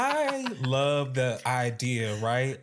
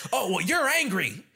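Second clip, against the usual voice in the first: mock Countess voice; 6 semitones higher, 3 dB louder than usual. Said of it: "and she goes".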